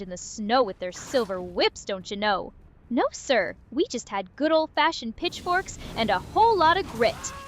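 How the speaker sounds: lightly put-on Southern drawl, slow start; a hint of an old Southern porch sitter. AI companion plays a porch-sitting Southern drawl on request. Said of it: "you want the real old school porch sitting southern drawl".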